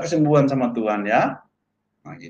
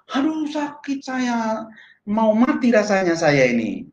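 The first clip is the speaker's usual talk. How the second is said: high-pitched mock wail of pain; meniru rintihan kesakitan; 8 semitones higher than usual. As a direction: imitate a sick friend suddenly crying out, without real volume. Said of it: "tiba-tiba aja dia teriak-teriak". (menirukan orang mengaduh kesakitan)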